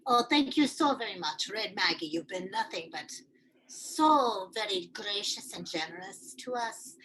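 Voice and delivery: lilting Irish brogue; Irish accent. Acted. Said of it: "I'm turning Irish".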